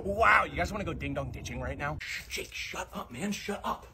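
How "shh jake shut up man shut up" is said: hushed, half-whispered warning; urgent hushing. Acted. Hushing friend during a prank.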